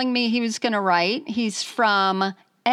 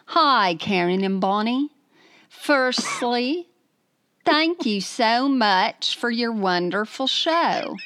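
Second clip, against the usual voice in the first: put-on wavering British accent; attempted British accent. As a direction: read it in a hammed-up British accent. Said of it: "read in your best British accent".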